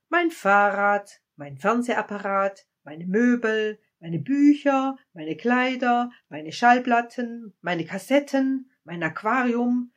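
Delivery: put-on a child proudly counting everything it owns; eager listing. A narrator's reading. Child eagerly lists its things to the wise man.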